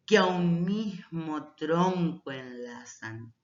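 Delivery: slow, measured verse reading; unhurried reading with linked vowels; poem recitation. Acted. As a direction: recite line by line, pausing after each. Reads poem aloud as example.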